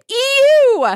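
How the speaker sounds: high, loud disgusted ew. A narrator's reading. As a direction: recoil in disgust. Disgusted exclamation.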